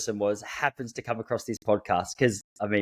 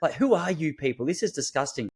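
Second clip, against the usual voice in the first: imitating an outraged woman, higher-pitched; retold scolding, incredulous and raised in pitch; indignant tirade; 4 semitones higher than usual. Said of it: "she just ripped me to shreds".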